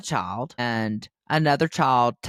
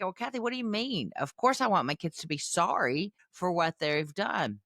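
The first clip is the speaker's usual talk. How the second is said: higher, quicker objecting parent; imitating an indignant objection; mock protest; 5 semitones higher, 4 dB quieter than usual. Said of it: "people often misunderstand that. They're like".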